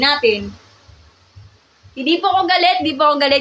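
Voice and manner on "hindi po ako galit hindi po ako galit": raised teaching voice, insisting it is not anger; loud but friendly reassurance; not angry, just loud. Real, not acted. Teacher telling livestream students she is not angry, loud voice. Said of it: "Ganun talaga yung boses ko".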